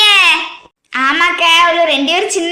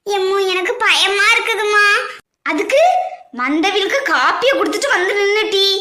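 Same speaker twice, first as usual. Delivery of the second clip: choked, crying plea to her mother; tearful fear. Acted. Bride crying to her mother, scared of the wedding, in tears. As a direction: whimper it out, scared and teary.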